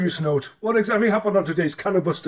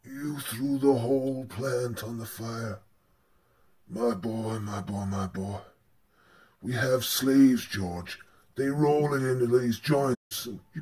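dismayed pa; 5 semitones lower, 3 dB quieter than usual. Acted. A father lamenting his burned plant, low and soft. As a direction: sink into disappointment.

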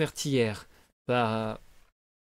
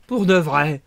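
cat's echo; 9 dB louder, slower than usual. Acted. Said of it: "répéta le chat".

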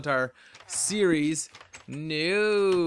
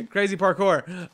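slow, louder, with a laugh on crazy parkour; amused, drawn out and louder; 3 semitones higher, 6 dB louder, slower than usual. Real, not acted. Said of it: "repeats it laughing".

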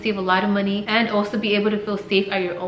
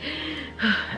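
breathless sigh; 5 semitones higher, 5 dB quieter than usual. Real, not acted. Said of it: "I'm running out of breath".

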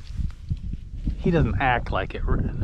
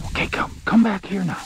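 higher, louder call to a far dog; calling from far away; 7 semitones higher, 4 dB louder than usual. Real, not acted. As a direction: call out across the field.

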